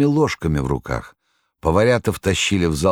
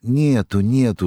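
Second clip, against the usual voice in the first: soothing, kind; 7 semitones higher than usual. A narrator's reading. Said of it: "успокаивала добросердечная Прасковья Фёдоровна".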